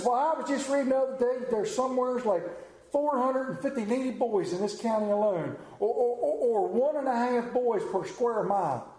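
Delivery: put-on building a lecture to an exasperated boy; worked up. Father lecturing son about needy boys, mildly worked up. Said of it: "he gets all worked up".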